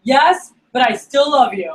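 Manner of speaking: mock tipsy insistence, voice lifting on the love; drunk friend. Drunk friend insisting he loves his buddy, mock tipsy gushing. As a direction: imitate a drunk pal pouring his heart out. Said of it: "your drunk friends call you".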